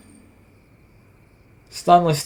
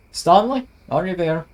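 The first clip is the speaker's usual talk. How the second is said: calling out; 5 semitones higher than usual. Acted. Calling out in empty graveyard.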